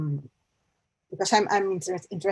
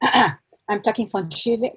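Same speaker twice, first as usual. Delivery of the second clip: louder and higher, projecting; repeating louder after being asked; speaking up; 4 semitones higher, 5 dB louder than usual. Real, not acted. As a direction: push the voice out so the call can hear. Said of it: "You have to speak a bit louder".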